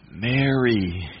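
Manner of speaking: tender, drawn-out call; sweet, familiar voice. Acted. Jesus saying her name to Mary, tenderly. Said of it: "She hears that familiar, sweet voice".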